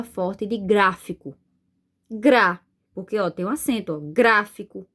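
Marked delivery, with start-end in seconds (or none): 2.1-2.6 "Gra" said alone with force; stressed syllable. Shown as a demonstration. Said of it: "Então, eu falo com mais força". 4.0-4.9 gráfico with "grá" punched harder; stress on the first syllable. Shown as a demonstration. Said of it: "Então, eu falo com mais força".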